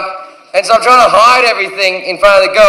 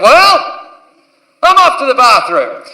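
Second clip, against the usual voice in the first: breezy exit; 3 semitones higher than usual. Retold or imitated. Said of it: "I went".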